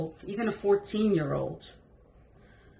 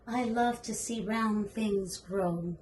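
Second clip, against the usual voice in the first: put-on little girl voice; slower than usual. Shown as a demonstration. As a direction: read it as the little girl would. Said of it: "Or you can talk like the girl".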